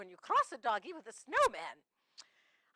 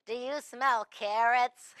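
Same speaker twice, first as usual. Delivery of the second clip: punchline delivery; 3 semitones lower, slower than usual. Shown as a demonstration. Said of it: "Get it, Missus Claus?".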